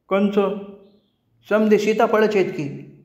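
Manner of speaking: put-on a small boy who can't see it; lightly voiced confused boy; little boy. A narrator's reading.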